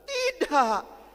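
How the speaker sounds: high, loud tearful no, with a sob; girl crying to her teacher. Acted. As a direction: choke out the no.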